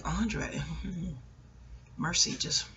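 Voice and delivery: soft laughing plea; pleading. Retold or imitated. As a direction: beg him for mercy under your breath. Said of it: "I was like".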